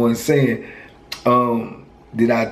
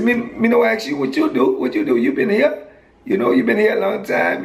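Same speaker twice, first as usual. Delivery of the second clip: put-on Virgin Islands accent pitched way up, dismissive; high-pitched Virgin Islands accent; 8 semitones higher than usual. Friend explaining why his people shun him, in a high Virgin Islands accent. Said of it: "I liked his accent".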